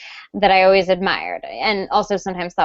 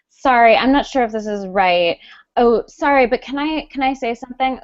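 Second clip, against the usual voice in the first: over-apologizing; 4 semitones higher than usual. Retold or imitated. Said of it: "That sort of thing drives me crazy".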